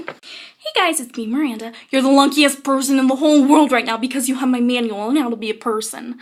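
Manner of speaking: lightly voiced Miranda Sings, a few whispered bits; a hint of Miranda's over-confident chirp; Miranda impression. Vlogger reading the flap as Miranda, lightly done impression. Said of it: "my terrible Miranda impression".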